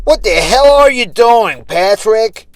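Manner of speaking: high, loud angry demand. A narrator's reading. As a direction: snap at him in anger. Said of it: "The old woman asked angrily".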